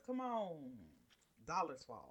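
lightly voiced smug tycoon; a hint of a smug rich mogul; future billionaire voice. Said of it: "my whole future billionaire voice".

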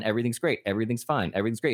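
happy-go-lucky. Retold or imitated. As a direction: chant it as an imitated cheery front. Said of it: "keeping everybody happy-go-lucky".

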